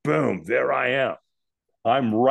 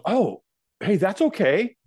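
placating; 8 semitones higher, slower than usual. Retold or imitated. Stranger backing off after refusal.

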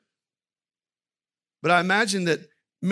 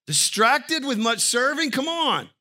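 mock exasperation; 9 semitones higher, 4 dB louder than usual. Preacher mocking Martha's complaint.

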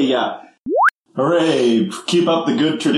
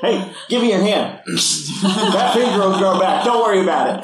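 laughing through the line; giggling mock comfort; 7 semitones higher than usual. Playful in-character reassurance, laughing.

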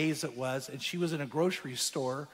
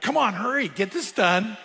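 pushed up high and louder, itching to be done; impatient urging; 4 semitones higher, 5 dB louder than usual. Retold or imitated. Waiting at the checkout to talk, mock impatient hurry.

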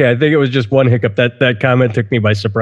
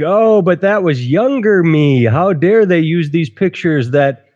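whiny offender; 3 semitones higher than usual. Retold or imitated. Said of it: "and like".

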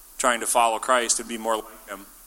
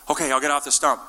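higher-pitched, mildly panicked compliance; mock freak-out; 4 semitones higher than usual. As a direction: act out a flustered giving-in. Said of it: "and you freak out".

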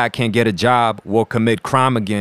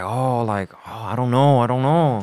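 lightly voiced, hesitant mom; mild imitation of a mom who's unsure; mom impression. Son retelling mom's reaction to weed stocks, lightly imitated mom. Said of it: "Is that your mom impression?".

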